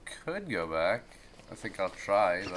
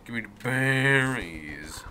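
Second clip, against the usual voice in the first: whispered, no voice at all. Acted. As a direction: breathe it out as a secret whisper.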